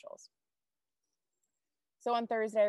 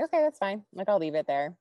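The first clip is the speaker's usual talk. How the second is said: breezy agreement; 3 semitones higher, 6 dB louder than usual. Retold or imitated. Retells breezy reply to daughter.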